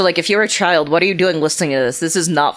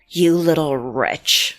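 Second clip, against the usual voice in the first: angry ghost; much slower than usual. Acted. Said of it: "she says".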